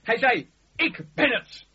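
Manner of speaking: preacher's triumphant reveal; rising proclamation. Acted. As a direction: climb to the climax. Woman's words, then Jesus' reveal.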